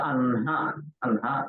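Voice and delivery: anha with n held, then breathed ha; correct nasal-h order. Shown as a demonstration. Teacher gives the word for daytime, carefully pronounced. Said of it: "like that".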